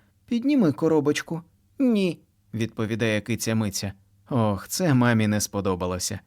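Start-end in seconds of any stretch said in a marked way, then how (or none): 0.3-1.4 indignant mom. A narrator's reading. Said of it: "обурюється мама". 1.8-2.2 put-on high child voice saying no; stubborn no; child refusing. A narrator's reading. Kitty refuses mom in high child voice.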